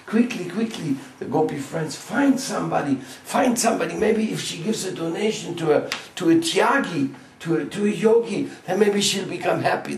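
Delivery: put-on high, hurried, worried old women; anxious guardian aunts. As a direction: fret loudly to the gopi friends. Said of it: "even Jatila Kutila said".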